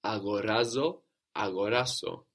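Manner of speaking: αγοράζω and αγοράσω both stressed on the ρά; accent on raz. Shown as a demonstration. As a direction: lean on the third syllable in αγοράζω, αγοράσω. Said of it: "it's raz that's taking the accent".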